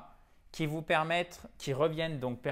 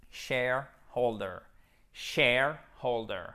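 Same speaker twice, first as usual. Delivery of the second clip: "shareholder" slowly in two parts, Share stressed; accent tonique; 4 dB louder, slower than usual. Shown as a demonstration. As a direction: hit Share, then a lighter stress on holder in "shareholder". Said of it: "avec un accent tonique ici". (« shareholder » lent, accent tonique sur Share)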